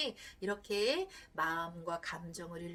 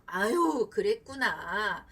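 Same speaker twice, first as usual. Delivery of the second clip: empathetic phrase; 4 dB louder, much slower than usual. Shown as a demonstration. Wife showing husband the words to say, slow and gentle. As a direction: say 그랬구나 gently and slowly. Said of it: "이 말 한마디만 해주면".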